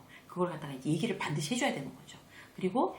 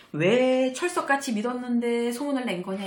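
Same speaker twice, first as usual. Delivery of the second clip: mock accusation; 4 semitones higher, 5 dB louder than usual. Accusing the one who spread it.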